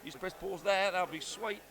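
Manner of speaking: put-on jokey, easygoing Australian accent; mock Australian accent. Promising to take accent requests, mock Australian accent. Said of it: "in an Australian accent".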